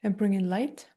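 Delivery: calm, unhurried meditation guide with long pauses; guided meditation. Acted. Meditation teacher guiding listeners through an energy transmission, calm guided meditation. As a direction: gently talk them through it, leaving space between phrases.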